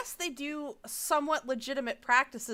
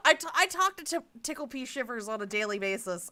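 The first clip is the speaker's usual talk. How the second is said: usual speaking voice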